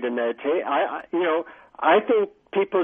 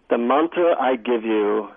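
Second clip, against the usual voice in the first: slow, lower, dramatic reveal; 3 semitones lower, slower than usual. Retold or imitated. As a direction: draw out the mantra like a secret. Guru reveals the mantra slowly.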